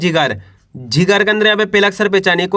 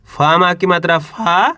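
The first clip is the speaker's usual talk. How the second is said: drawn out slowly, each sound held, rising at the end; slow syllable spelling. Shown as a demonstration. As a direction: spell फा माँ की मात्रा फा out slowly for children. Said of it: "teacher spells syllable slowly".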